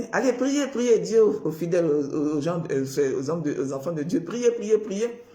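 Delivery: appel aigu et fort, comme un prédicateur qui exhorte; appel à prier crié. Retold or imitated. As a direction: lance l'ordre de prier bien plus haut et plus fort. (exhortation criée à l'assemblée, plus aiguë et plus forte)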